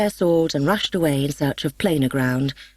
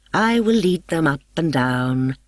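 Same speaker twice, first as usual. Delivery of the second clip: mischievous goblin. Acted. Puck's voice, mischievous.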